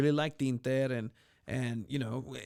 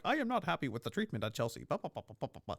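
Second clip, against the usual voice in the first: whiny player; 4 dB quieter, faster than usual. Pretend. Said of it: "Kepa Arrizabalaga talking to, like, a reporter".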